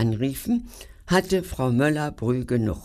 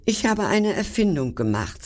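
high, eager inventor's announcement; very excited; 7 semitones higher than usual. A narrator's reading. Inventor on the phone to a stranger, excited. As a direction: burst out with his big news. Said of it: "sagte er ganz aufgeregt".

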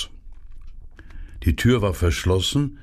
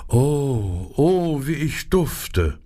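vain flower; 4 semitones higher, much slower than usual. A narrator's reading. Vain narcissus admiring its scent.

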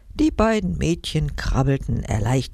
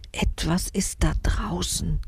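hushed, breathy whisper; 2 semitones higher than usual. Acted. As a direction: whisper it as if the thing could hear. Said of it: "flüsterte sie". (geflüstert, ganz leise)

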